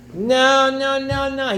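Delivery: high, loud angry noes; host loudly refusing every offer from his enemy; flat refusal. Acted. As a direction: shut him down with a shouted no. Host refusing Bar Kamsa's offer.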